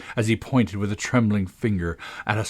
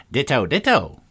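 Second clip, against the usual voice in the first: raised, higher cry of ditto; mildly shouted echo; 5 semitones higher, 4 dB louder than usual. A narrator's reading. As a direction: call it out twice, pitched up. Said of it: "He shouted this so loud".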